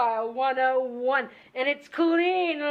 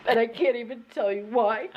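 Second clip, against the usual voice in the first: laugh-crying. Acted. Laugh-crying about family.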